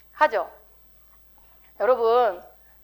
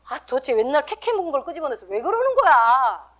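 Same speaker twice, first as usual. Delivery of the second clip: acted marital blow-up, rising to a wail; exasperated complaint. Husband to wife dragging up the past, exasperated complaint. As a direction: complain in mock exasperation, stretching the ending.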